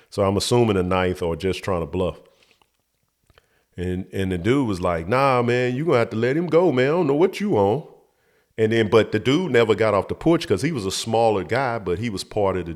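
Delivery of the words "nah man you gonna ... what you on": higher-voiced retold protest; retold confrontation. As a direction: imitate a bystander objecting, pitch raised. Retold bystander confronting the kidnapper.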